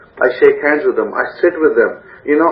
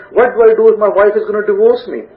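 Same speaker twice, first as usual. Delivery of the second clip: mock frantic search; 5 semitones higher than usual. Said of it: "get onto Google and search".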